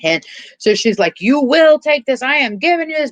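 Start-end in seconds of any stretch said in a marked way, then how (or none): 1.2-3.1 acted forceful insistence. She orders dead Missus Ganush to take it, acted insistence. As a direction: force each word on an unwilling listener. Acting her order to a corpse.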